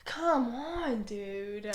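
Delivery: hushed whispered protest; whispering. Real, not acted. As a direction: breathe it out in a whisper.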